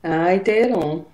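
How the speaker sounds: slow, mock Northern Irish accent. Shown as a demonstration. Co-host teasing host about the accent, mock Northern Irish. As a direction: stretch it out in imitation Northern Irish. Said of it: "You can't do a Northern Ireland accent".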